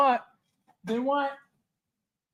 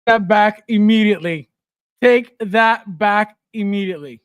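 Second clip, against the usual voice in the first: loud, emphatic mock demand; mock indignation; 3 semitones higher, 6 dB louder than usual. Streamer orders Ash to retract, mock indignant. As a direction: order it retracted, hammering each word.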